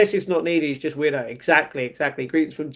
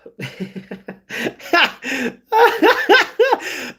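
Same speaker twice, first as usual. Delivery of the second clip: real laughing fit; 9 semitones higher than usual. Real, not acted. Streamer cracking up at the live chat, laughing hard. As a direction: crack up in a long, high laugh.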